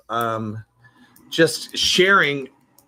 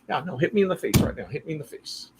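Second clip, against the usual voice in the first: quick, higher mimicry of the pal; lightly put-on eager voice, trailing softer; imitating a friend; 4 semitones higher, 4 dB quieter than usual. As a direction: rush it as the insistent buddy. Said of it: "that's how he talked".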